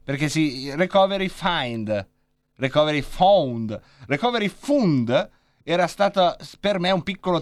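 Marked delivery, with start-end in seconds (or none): 0.8-2.1 "recovery find" said slowly, find as in English "find"; wrong pronunciation. Shown as a demonstration. Trying out "recovery find" while learning to pronounce it. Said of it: "imparare a pronunciarlo". 2.6-3.8 "recovery found" said slowly, found with an "ound" sound; drawn-out "recovery found"; wrong pronunciation. Shown as a demonstration. Fumbling "recovery found" while learning the word. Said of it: "imparare a pronunciarlo".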